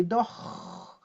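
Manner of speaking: "Doch" with a short vowel and a harsh k-like end; mock clipped dog. Teacher mocks a student's clipped "Doch" for dog. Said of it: "instead of dog".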